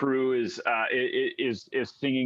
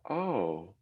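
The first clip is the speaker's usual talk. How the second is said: whispered, frightened question; fearful whisper; 2 semitones lower, 8 dB quieter than usual. Acted. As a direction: breathe the question out in fear. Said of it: "And she, she goes".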